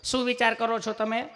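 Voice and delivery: high, tender mock-nurse voice; put-on loving nurse; gentle nurse. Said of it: "તમે કેટલું પ્રેમથી પૂછો છો".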